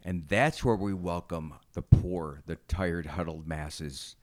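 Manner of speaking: slow, low recital with weighty pauses; mock-solemn proclamation. Host parodying the Statue of Liberty's welcome, mock-solemn. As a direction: recite it like a monument's inscription, slowly.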